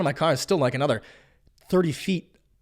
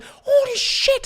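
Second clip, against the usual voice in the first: high-pitched, drawn-out mock alarm; alarmed exclamation; much slower than usual. Driver spots guard turkeys coming at him, alarmed. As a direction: draw it out slowly in rising alarm.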